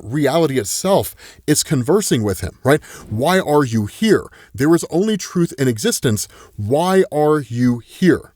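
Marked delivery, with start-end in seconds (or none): 3.1-8.3 slow, deliberate questioning from a disembodied entity; lightly voiced, measured interrogator; solemn questioning. Reality itself presses Marshall for truth, solemn questioning.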